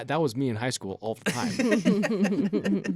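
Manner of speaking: slow, laughing confession. Real, not acted. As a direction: chuckle through it. Laughing self-mockery.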